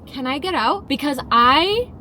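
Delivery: slow, drawn-out desperate plea; hammed-up panic, slowed down; mock panic. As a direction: beg like you might die. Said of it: "The panic attack that I am having".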